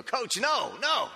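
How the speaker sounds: put-on high protesting kids crying no; pleading kids. Kids begging the coach not to play him, high and pleading. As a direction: squeak it out like panicked kids.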